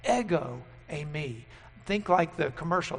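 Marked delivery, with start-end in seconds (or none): 0.0-1.4 "Ego eimi" as EH-go AY-mee, stress on EH; model pronunciation. Shown as a demonstration. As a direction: say "Ego eimi" for the class to repeat. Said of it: "so that you just heard that".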